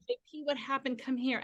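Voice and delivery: soft, concerned parent voice; comforting. Retold or imitated. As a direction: gently coax an upset child over. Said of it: "I'm gonna comfort him".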